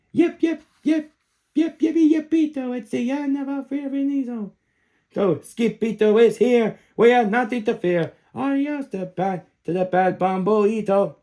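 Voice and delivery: high gleeful chant; excited cheer. Acted. Chihuahuas celebrate their hero, high and excited.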